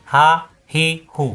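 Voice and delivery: হা said short and quick; brief হা without lengthening; quick short vowel. Shown as a demonstration. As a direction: clip হা to a single beat, no stretch. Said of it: "হরকত আসলে দ্রুত".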